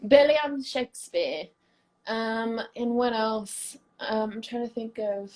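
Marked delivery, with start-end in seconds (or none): 0.1-1.4 Billiam called out high and loud; playful high Billiam. Pretend. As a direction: sing out Billiam bright and high. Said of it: "Yeah, Billiam".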